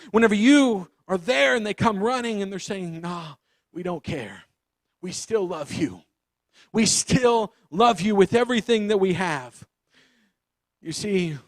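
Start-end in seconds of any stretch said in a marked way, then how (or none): 3.0-9.7 gentle reassurance. Acted. Parents reassure returning child.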